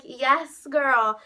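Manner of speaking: drawn-out, approving imitation; emphatic cheering-on. Singer praising a fan's video, emphatic cheering-on. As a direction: imitate her slowly savoring the approval. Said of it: "She literally went like that".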